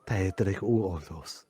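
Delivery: low, slow dubbed voice; mock Spanish dub. Dubbing the clip in Spanish.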